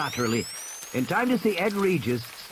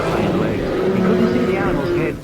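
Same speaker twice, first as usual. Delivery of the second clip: tense narration; 6 semitones higher, 7 dB louder than usual. A narrator's reading.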